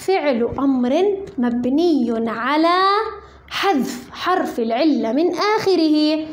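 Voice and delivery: slow, deliberate recitation; slow parsing formula. Shown as a demonstration. Teacher reciting the parsing rule for students, slow. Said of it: "نقول في إعراب اسعى".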